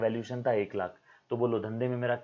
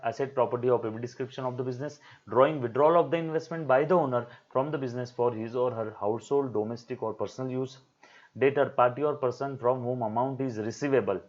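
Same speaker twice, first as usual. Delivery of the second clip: slow dictation; much slower than usual. Acted. Dictates definitions slowly.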